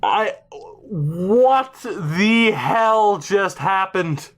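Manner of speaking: slow, halting disbelief; speechless. Real, not acted. Streamer who cannot believe the draft pick, slow and speechless. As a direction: drag each word out, dumbfounded. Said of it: "I am fucking speechless".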